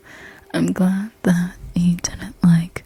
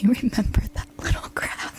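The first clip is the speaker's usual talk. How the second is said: words breaking into a soft laugh; amused laughing; 3 semitones higher, 4 dB quieter than usual. Real, not acted. Recalling the crab in the face, amused laughing. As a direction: let a giggle take over the end.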